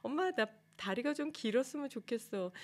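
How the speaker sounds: put-on high pouty kid voice pleading with mom; young gymnast whining to her mom for longer legs; whiny child. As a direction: sulk and whine like a little girl. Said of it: "그렇게".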